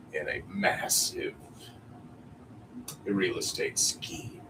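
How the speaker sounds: lightly voiced smug supervillain; a hint of a menacing villain; Batman villain voice. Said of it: "an original Batman villain's voice".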